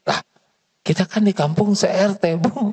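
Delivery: maid's cheeky retort. Acted. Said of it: "Kata si bibi".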